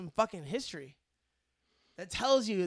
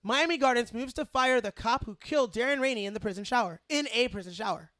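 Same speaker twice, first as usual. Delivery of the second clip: newscaster voice; 3 semitones higher, 4 dB louder than usual. Shown as a demonstration. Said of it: "That's what it would be".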